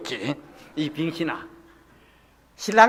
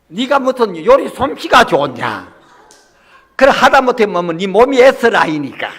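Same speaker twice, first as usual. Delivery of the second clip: mock scolding; slower than usual. Pastor scolds deaconess, retold.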